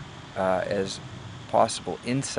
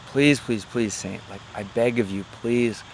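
please pitched up, then sinking; mildly hammed-up begging; desperate pleading; 2 semitones higher than usual. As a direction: act out a man begging a saint. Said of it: "he's equally desperate".

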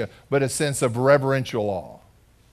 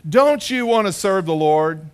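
raised, pressing plea from a preaching woman; fervent evangelist; 3 semitones higher, 4 dB louder than usual. Retold or imitated. Preaching woman urging the unsaved young man, pressing plea. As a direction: urge him like she's ministering at the altar. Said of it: "looks at him and says".

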